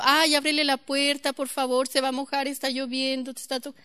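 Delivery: mock whimpering God. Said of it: "un diosito que está llorando".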